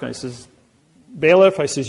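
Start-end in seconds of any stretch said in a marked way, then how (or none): 1.2-1.6 a sharp summons, higher and louder; calling out. Retold or imitated. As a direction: call the bailiff across the courtroom. Summoning the bailiff in court.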